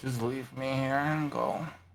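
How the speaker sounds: mumbling, muttering quietly under her breath. Voicing a character climbing the steps: mumbling under her breath. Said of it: "she tries to mumble under her breath".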